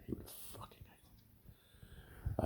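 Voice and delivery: hushed whisper aside. Real, not acted. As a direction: drop to a breathy whisper, barely voiced. Aside about the cat.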